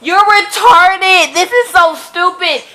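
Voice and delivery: angry reader ranting at a dumb choice; furious rant. Real, not acted. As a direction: scold the heroine at full volume.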